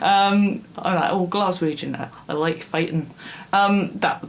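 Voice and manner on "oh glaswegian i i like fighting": understated mock-Glaswegian accent. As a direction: attempt a light Glaswegian accent. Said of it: "that was my Glaswegian accent".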